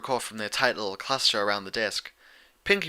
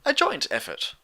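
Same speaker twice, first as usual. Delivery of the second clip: airy; 11 semitones higher than usual. Acted. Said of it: "Rarity added airily".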